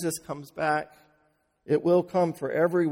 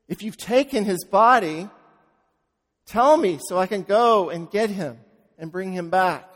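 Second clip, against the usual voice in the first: louder, pleading and desperate; urgent plea; 4 dB louder than usual. Retold or imitated. Mary pleading with the gardener, urgent and louder. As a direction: beg him to give the body back.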